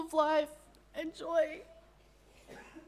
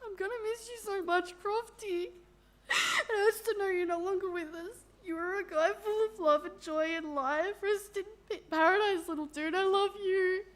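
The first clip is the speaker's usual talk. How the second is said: tearful goodbye; 5 semitones higher than usual. Real, not acted. Tearful farewell at a funeral.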